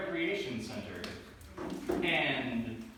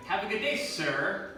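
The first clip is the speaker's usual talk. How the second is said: sarcastic; 3 semitones higher, slower than usual. Shown as a demonstration. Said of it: "I want him ravaged by wild animals".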